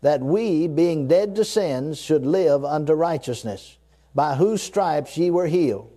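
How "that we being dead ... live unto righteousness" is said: reading it slow. Shown as a demonstration. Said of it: "Now I'm gonna read it slow".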